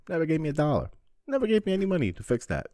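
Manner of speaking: high, loud outraged complaint; indignant complaint. Real, not acted. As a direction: rail against the unpaid debt. Complaining about unpaid damage.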